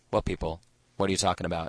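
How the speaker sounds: flat, fast, expressionless deadpan delivery. Retelling how he answered a question about Comic-Con crowds, retelling a deadpan reply. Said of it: "he looked at me deadpan and said".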